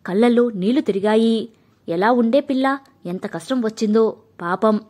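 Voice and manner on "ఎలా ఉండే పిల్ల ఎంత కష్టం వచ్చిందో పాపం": usual speaking voice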